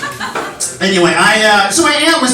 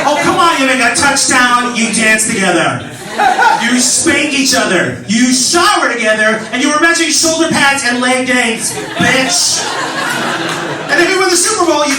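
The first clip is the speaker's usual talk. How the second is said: sassy; 5 semitones higher than usual. Retold or imitated. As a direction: throw shade at dad. Sassy rebuttal to dad.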